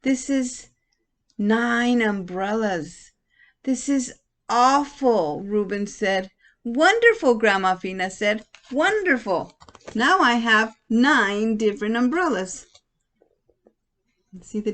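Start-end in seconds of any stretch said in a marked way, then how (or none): 0.0-5.4 exasperated. Acted. Ruben upset at umbrellas. 6.6-7.3 much higher, louder wonderful; delighted. Acted. Grandma delighted with umbrellas. 8.7-12.7 delighted. Acted. Grandma delighted with umbrellas.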